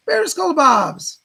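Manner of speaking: loud, high, drawn-out name; calling out a donor. Real, not acted. Host greets the next donor, calling out loud and slow.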